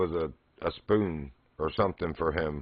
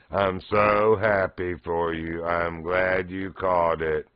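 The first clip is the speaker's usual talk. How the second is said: slow deadpan robot monotone; slower than usual. Retold or imitated. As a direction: drone it like a bored robot. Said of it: "Some monotone robot voice".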